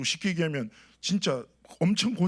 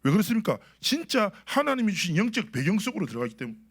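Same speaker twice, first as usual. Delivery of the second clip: raised, emphatic sermon delivery; preaching; 4 semitones higher than usual. Real, not acted. Pastor proclaims God's gift to the congregation, preaching. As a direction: preach it with lifted pitch and firm projection.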